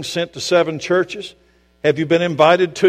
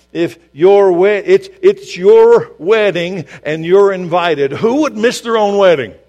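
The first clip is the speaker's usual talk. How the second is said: preaching at full force; 5 semitones higher, 7 dB louder than usual. Real, not acted.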